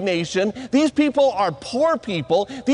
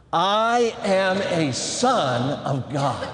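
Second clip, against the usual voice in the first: slow, lower-pitched declaration; leading a recitation; 5 semitones lower, much slower than usual. Shown as a demonstration. Preacher has the guys repeat after him, slow recitation. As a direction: spell it out slowly for others to repeat. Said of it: "say that with me".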